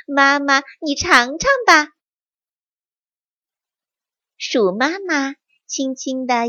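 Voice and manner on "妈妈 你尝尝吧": happy. Acted. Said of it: "开心地说道".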